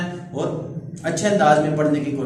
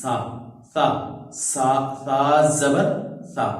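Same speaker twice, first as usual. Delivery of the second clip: fluent reading; slower than usual. Shown as a demonstration. Teacher demonstrating fluent reading after spelling. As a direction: run the syllable together smoothly. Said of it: "اب ہم اس کو رواں پڑھیں گے".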